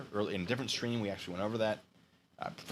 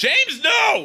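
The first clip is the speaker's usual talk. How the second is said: very loud, swooping screaming outburst; 16 dB louder than usual. Reacting as james gets ahead in the game: screaming. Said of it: "I'm sorry for screaming into the microphone".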